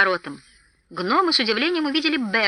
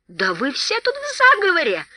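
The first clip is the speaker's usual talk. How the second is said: angry growl; 8 semitones higher than usual. A narrator's reading. Thorin snarling at Gandalf and his allies, angry. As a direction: snarl it at them all. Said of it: "зарычал Торин".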